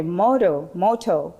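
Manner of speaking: "Moto" in a Kenyan accent, crisp T. Shown as a demonstration. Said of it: "Let me say it like a Kenyan with a T".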